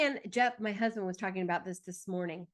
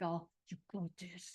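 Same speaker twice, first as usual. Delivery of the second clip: cheerleader voice; 6 dB quieter than usual. Retold or imitated. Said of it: "my Aries butt was like".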